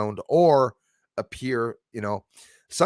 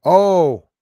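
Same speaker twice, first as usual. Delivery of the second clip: usual speaking voice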